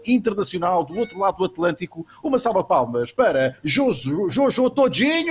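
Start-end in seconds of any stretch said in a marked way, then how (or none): 2.2-5.3 slow, rising, high and loud hype announcement; host hypes the guest's entrance like a stage MC, drawn-out booming call; announcer call. Acted.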